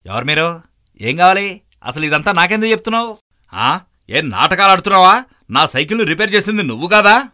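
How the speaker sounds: high, loud defensive questioning; confused youth shouts back at the cyclist; irritated retort. Acted. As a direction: snap back at a stranger.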